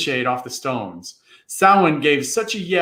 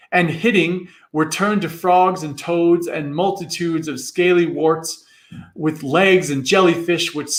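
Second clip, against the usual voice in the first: plain reading voice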